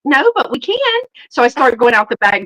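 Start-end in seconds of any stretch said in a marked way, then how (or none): 0.1-1.0 chirpy. Retold or imitated. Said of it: "I was like".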